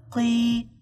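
"قي" modelled as an isolated qee; qaf with kasra. Shown as a demonstration. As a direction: sound out "قي" as one syllable, qee. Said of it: "قاف كسرة".

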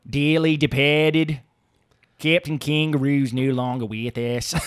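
put-on slow, solemn try at an Australian accent that slips toward Boston; mock eulogy in a shaky Australian accent; drawn-out faux-Australian accent, slow like a eulogy; attempted Australian accent. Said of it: "that sounded Boston".

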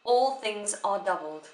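"All things are doubled" set apart as a complete statement; single sense group. Shown as a demonstration. Teacher isolating a phrase for students, single sense group. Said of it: "makes sense".

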